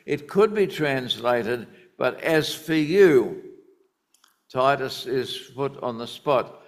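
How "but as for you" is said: slow and louder, each word weighed; emphatic reading. Shown as a demonstration. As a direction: lean hard on "But as for you". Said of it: "The grammar is most emphatic".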